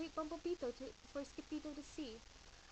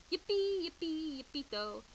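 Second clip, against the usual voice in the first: higher, louder yelp of joy; cheering; 4 semitones higher, 6 dB louder than usual. Acted. Chihuahuas cheering for their hero, excited. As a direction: cheer like a happy little dog.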